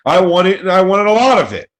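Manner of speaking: hammed-up high shouting boast; mock shout. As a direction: yell it proudly at everyone. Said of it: "stop yelling at us".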